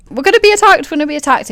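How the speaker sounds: high-pitched alarm, acted out; panicked. Game master acts out Endo expecting an attack, panicked. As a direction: blurt it in mock panic. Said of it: "you're very panicked".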